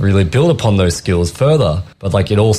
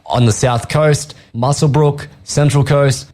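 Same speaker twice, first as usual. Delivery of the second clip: commercial radio voice; 3 semitones higher than usual. Acted. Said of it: "I'm bringing it in for this one".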